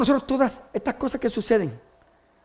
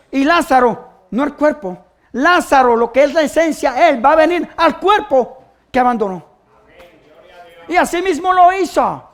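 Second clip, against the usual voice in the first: emphatic, raised preacher voice; fervent preaching; 5 semitones higher, 8 dB louder than usual. Acted. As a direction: declare it firmly to the congregation. (predicación enfática y fervorosa)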